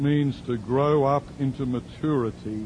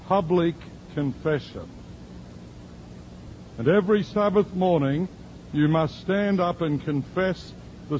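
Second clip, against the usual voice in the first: lightly voiced church lady, earnest; voicing the woman; 4 semitones higher than usual. Preacher quoting the woman at the door, higher and earnest.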